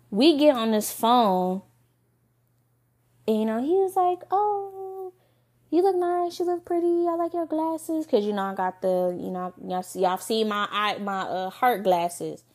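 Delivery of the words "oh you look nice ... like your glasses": imitating him. Retelling date's flirty compliments.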